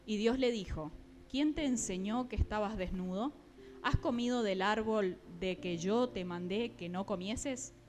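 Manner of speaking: measured, deliberate Bible reading; scripture reading. Acted. Preacher reads Genesis to the congregation, deliberate scripture reading. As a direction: read the verse out clearly, phrase by phrase.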